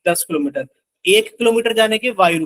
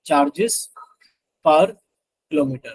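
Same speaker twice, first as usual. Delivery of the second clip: slow dictation; 4 semitones lower, much slower than usual. Real, not acted. Dictates the term while writing.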